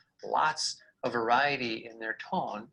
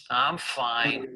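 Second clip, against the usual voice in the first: put-on not-fine tone; unconvincing "fine"; 3 dB louder than usual. Shown as a demonstration. Answering how I'm doing, obviously not fine. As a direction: say it so the tone contradicts the words. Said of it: "well, obviously I'm not fine".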